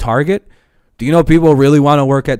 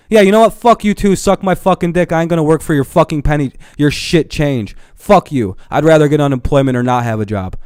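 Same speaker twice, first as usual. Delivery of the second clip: defiant worker. Retold or imitated. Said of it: "people are going".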